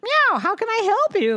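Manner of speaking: high kitty voice; cat offering to help. Acted. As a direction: talk like a helpful little cat. Cat character speaking.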